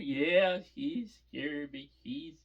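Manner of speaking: mock bawling. Crying girl confirms to the grown-ups she was frightened, mock bawling. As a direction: imitate a tearful kid, dragging it out. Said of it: "why are you crying so bad".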